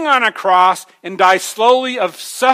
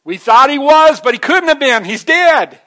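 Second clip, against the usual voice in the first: louder, higher cry of lost hope; despairing disciples; 6 semitones higher, 6 dB louder than usual. Retold or imitated. Disciples after the cross, a loud despairing cry. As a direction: cry out that it's all over. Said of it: "They all said".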